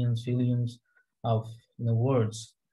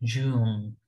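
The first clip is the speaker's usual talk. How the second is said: slight throat vibration; 2 semitones lower, much slower than usual. Shown as a demonstration. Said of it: "গলাটা vibrate করছে হালকা হালকা".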